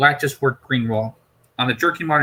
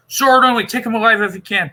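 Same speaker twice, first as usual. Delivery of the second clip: loud, higher battle orders; rally the guards to charge; commanding shout; 10 semitones higher, 5 dB louder than usual. Acted. Officer ordering guards to take the Doctor, shouting.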